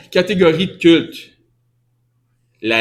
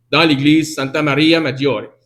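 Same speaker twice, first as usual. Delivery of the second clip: Italian accent. Shown as a demonstration. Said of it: "Mon accent italien, c'est parfait".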